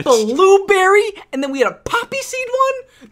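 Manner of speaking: drawn-out, high, loud gushing; excited. Real, not acted. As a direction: gush over the muffins. Raving about office muffins.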